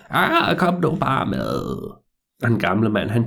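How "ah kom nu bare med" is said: put-on old man coaxing. Old man urges the boy.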